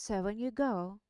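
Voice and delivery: eager country servant voice; humble rustic lad pleading; Sam voice. Acted. Sam character voice in reading.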